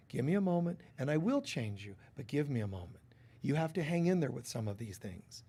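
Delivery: a hint of a tender mother rocking; lightly voiced soothing mother. Divine Mother soothing baby.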